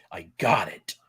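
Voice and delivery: channel a wrestling promoter barking orders; mock tycoon announcing a champion; Vince McMahon voice. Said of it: "Why did I do that in a Vince McMahon voice?".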